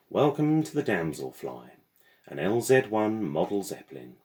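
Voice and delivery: a hint of a chirpy mechanical porter welcoming guests. Porter greets passengers.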